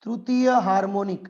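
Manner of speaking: તૃતીય હાર્મોનિક said slowly; teacher giving the answer slowly; slow term. Shown as a demonstration. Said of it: "તો આને શું નામ આપશું?".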